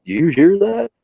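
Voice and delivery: high, loud questioning call; buddy noticing a cry for help; alerted question. Retold or imitated. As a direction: point out a faint sound. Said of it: "he was like".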